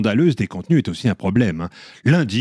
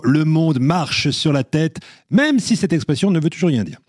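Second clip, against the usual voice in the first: grave. Shown as a demonstration. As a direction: proclaim it like grim news. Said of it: "je vous le dis gravement".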